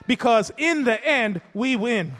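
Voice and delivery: fervent pulpit cadence with repeated lines; preaching. Acted. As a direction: build it up like a pastor's closing climax. Building sermon climax.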